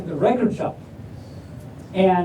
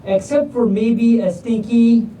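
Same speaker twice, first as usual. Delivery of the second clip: clown's punchline; slower than usual. Acted. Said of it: "And Clown says".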